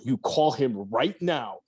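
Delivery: imitating a stern parental order, punched words; retold urgent demand, lightly acted; mock angry parents. Parents ordering their son home from fishing, mock angry.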